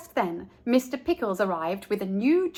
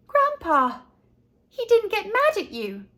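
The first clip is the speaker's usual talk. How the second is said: put-on much higher, amazed kid voice; a little boy who can't believe it; surprised boy; 11 semitones higher, 3 dB louder than usual. A narrator's reading. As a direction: Frank marvelling to his grandpa.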